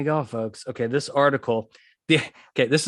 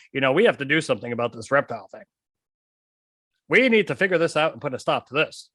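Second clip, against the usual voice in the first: mocking the CEO; faster than usual. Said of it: "CEO says".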